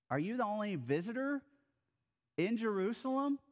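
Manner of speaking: can you believe this guy hasn't heard; incredulous. Retold or imitated. Cleopas incredulous at stranger.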